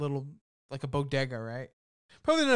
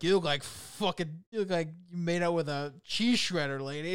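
lightly acted insult comedy; mock roasting; 3 semitones higher than usual. Film hero roasting a lady in the store, mildly mocking. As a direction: retell the insult as a playful roast. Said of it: "like, roasting this, like, lady".

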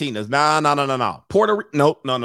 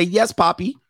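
put-on sweet girlfriend voice; 4 semitones higher than usual. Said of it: "She gonna say".

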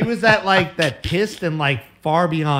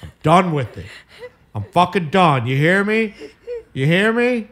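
1: angry rant; 3 semitones higher than usual. Acted. Fickle rants at co-hosts.

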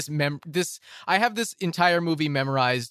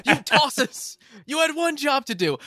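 exasperated Cockney movie quote, pitched up; Cockney accent; 7 semitones higher, 5 dB louder, slower than usual. Acted. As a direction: drag it out, loud and Cockney. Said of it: "the Cockney accent".

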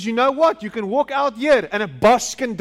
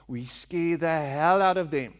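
ordinary delivery

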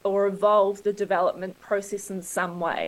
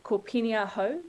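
full New Zealand accent on "Penny"; "Penny" said in her natural Kiwi accent; 5 dB quieter than usual. Real, not acted. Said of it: "I'm trying to drop my Kiwi accent".

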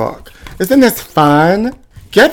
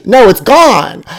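mock yell; 6 semitones higher, 4 dB louder, slower than usual. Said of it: "He, like, yelled at me".

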